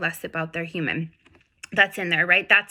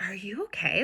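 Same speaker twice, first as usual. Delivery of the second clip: whispered concern; 5 dB quieter than usual. Retold or imitated. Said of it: "the dog is like".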